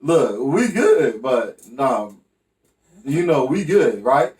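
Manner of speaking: calm down the guy who swung; placating. Retold or imitated. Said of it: "I'm like".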